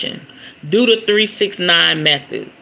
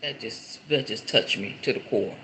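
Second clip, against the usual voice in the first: moved; 7 semitones lower, 11 dB quieter than usual. Real, not acted. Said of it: "It makes me emotional".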